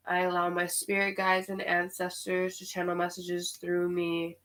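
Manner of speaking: a soft, solemn prayer calling on the elements; quietly invoke earth, wind, fire and water; hushed invocation. Acted. Reader calling on spirit guides before channeling, hushed and solemn.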